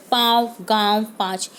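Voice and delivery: पाँव, गाँव, पाँच with the vowels sounded through the nose; teacher demonstrating पाँव गाँव पाँच with nasal vowels; nasal vowels shown. Shown as a demonstration. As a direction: let पाँव गाँव पाँच ring a little nasally, like a teacher showing chandrabindu. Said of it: "तो नाक से थोड़ी थोड़ी आवाज़ सुनाई दे रही है".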